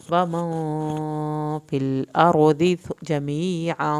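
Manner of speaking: slow, loud, drawn-out tajweed chant; Quran recitation. Shown as a demonstration. Teacher recites aloud for students, slow loud chant. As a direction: chant each word slowly for the class to follow. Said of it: "teacher models the recitation".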